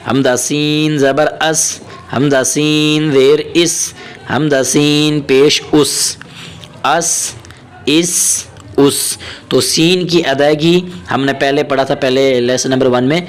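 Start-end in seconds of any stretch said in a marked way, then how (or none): 0.1-9.2 slow, measured Arabic letter drill; teacher reciting a Qaida drill slowly; Qaida drill recitation. Shown as a demonstration. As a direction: chant the letters like a Quran teacher.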